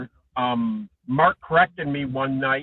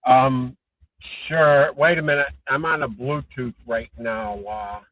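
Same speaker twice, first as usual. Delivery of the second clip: muffled. Real, not acted. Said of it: "You sound muffled".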